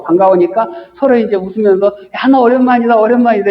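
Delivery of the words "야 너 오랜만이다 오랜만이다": a hint of a dog greeting its friend; playful dog greeting. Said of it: "이제 그러는 거예요".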